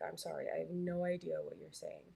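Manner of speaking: ordinary talk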